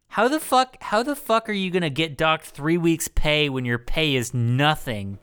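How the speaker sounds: high pitched disbelief on the first words; incredulous outburst. Real, not acted. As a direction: scoff at the absurd idea. Incredulous rant about fines.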